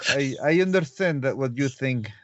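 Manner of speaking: put-on light Russian accent, Dracula-like; Russian accent, a touch spooky. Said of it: "with your Russian accent, you sound very Dracula-like".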